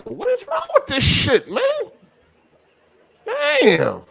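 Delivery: high, exasperated outburst. Real, not acted. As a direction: throw it up in frustration. Connection down to one bar.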